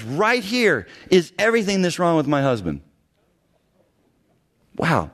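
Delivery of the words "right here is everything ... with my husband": emphatic, slightly raised retold announcement; imitating an emphatic accuser; emphatic presentation. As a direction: present it as damning proof. Retells woman presenting her scroll.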